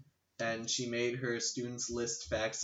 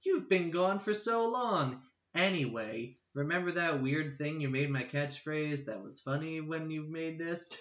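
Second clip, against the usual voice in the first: game villager voice; 4 semitones higher than usual. Retold or imitated. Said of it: "They're like".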